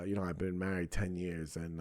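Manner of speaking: normal talking voice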